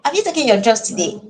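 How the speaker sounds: loving tone. Shown as a demonstration. Parent gently asking child about medicine, loving tone. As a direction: ask gently, showing care. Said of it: "If you say it in a loving tone".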